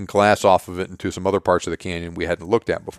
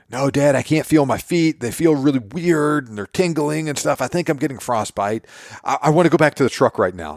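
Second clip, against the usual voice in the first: put-on higher whining child voice; whiny panicking kid; 6 semitones higher than usual. Son begging dad to go back, whining. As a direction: whine like a scared kid.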